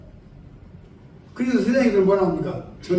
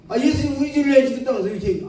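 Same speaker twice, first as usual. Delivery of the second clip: higher and fast, losing patience; exasperated question; 5 semitones higher, faster than usual. Retold or imitated. Preacher pressing the stubborn elder, exasperated and fast. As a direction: rush the question, fed up now. 아, 이 양반이 정말.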